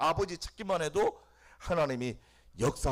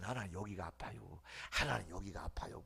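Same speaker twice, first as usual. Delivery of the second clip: soft, hushed plea; simple honest prayer; 4 semitones lower, 8 dB quieter than usual. Shown as a demonstration. Believer telling God where it hurts, hushed soft plea. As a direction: whisper it like telling God a secret. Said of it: "아프면".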